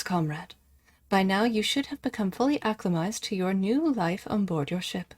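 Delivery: even, measured computer announcer read; automated voice. Acted. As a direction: read it like a machine briefing. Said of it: "I sound like an automated voice there".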